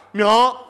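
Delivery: 明儿 said thick-tongued and slurred; swollen tongue. Shown as a demonstration. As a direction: mush 明儿 through a big tongue. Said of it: "你搁的大舌头怎么说".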